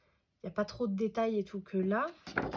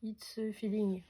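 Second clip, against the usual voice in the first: slow English read with a heavy French accent; halting English in a French accent; slower than usual. Shown as a demonstration. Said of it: "Désolée pour mon accent".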